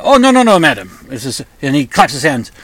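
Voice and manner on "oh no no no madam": high, loud, hammed-up French maître d' accent; outrageous French accent. Maître d' stops the woman leaving, over-the-top French accent. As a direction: ham up a snooty French waiter stopping a diner, French accent throughout. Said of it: "doing a really, you know, outrageous French accent".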